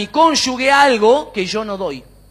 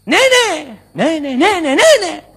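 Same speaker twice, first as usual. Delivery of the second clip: high, drawn-out call with echoes; 5 semitones higher, much slower than usual. Acted. Boy calls to another child in the mountains, calling out. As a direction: call across a mountain, then echo it. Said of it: "Y gritó".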